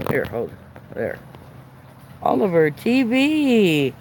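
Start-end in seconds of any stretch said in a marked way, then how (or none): 2.2-3.9 announcer voice. Pretend. Announcing channel name.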